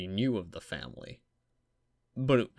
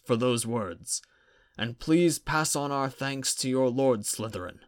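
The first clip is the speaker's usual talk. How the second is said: raised, formal address to the chamber; formal official voice; 5 semitones higher, 3 dB louder than usual. Acted. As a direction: speak up like a presiding official. The chief warlock addresses the chamber.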